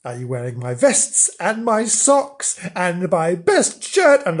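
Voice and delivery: affronted, spluttering tirade; indignant shouting. Acted. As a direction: pile up accusations in rising outrage. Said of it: "he shouted".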